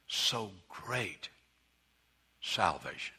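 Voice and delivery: "how" repeated, then "so great salvation" slow, low and soft; hushed repetition. Shown as a demonstration. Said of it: "Let me tell you".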